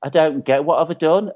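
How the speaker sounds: high, exasperated outrage; worked-up comic indignation; retold angry rant. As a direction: rant in disbelief, dragging out key words. And I was just angry.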